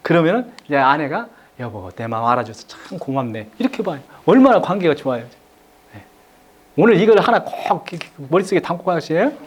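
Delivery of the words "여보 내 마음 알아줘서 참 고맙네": low, soft, touched thanks; a quiet, heartfelt thank-you; grateful wife. Shown as a demonstration. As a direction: thank him gently from the heart. Wife thanks husband in demo.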